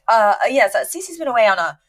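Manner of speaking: stall, then stretch out the excuse; flustered cover story. Retold or imitated. Maxwell explaining Cece's absence, flustered and stalling.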